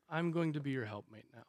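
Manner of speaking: soft, quick, even reply; perfectly calm. Retold or imitated. Wife not afraid of her husband's anger, calm and controlled. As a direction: say it quietly, without a hint of hysterics. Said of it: "Perfectly calm, perfectly controlled".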